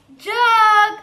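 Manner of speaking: loud, high, drawn-out word; reading out loud. Shown as a demonstration. Teacher models a word for children, loud and drawn out. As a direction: sound it out loudly on a held high note. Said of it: "વાંચો જોઈએ મોટેથી".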